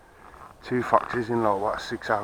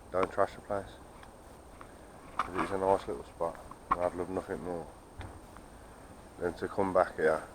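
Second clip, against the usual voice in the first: talking quietly; 7 dB quieter than usual. Real, not acted. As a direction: keep it down so nobody hears. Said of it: "I'm only talking quietly".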